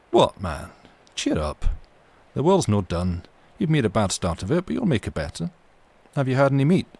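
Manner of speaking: lightly voiced Scots mate, coaxing; jolly him along, a touch brighter; Scots sailor cheering. Ship's mate coaxing the sick boy, hearty Scots lilt.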